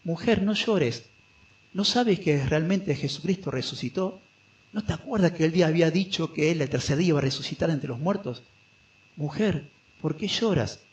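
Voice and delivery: tender consoling. Acted. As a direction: soothe her like a friend who knows the good news. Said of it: "es como diciendo".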